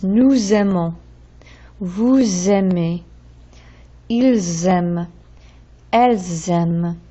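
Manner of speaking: pronouns linked to the verb with a clear z; slow, careful teacher demo of liaison. Shown as a demonstration. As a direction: sound the silent S as z before the vowel. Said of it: "where the S is not usually pronounced, it becomes".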